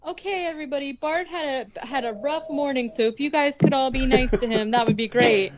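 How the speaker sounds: lightly voiced, addressing a whole group sweetly; Lisa. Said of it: "Lisa's like".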